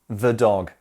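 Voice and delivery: "the" said "thuh" before "dog"; weak schwa in "the", weight on "dog"; "thuh" before consonant. Shown as a demonstration. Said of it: "notice the difference in pronunciation".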